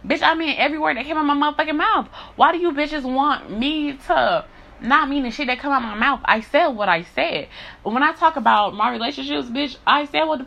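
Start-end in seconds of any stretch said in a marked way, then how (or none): 0.1-5.1 higher, fast insistent rant; real heated insistence; emphatic rant. Real, not acted. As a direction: rattle it off, pitched up and insistent. Angry rant about sincerity.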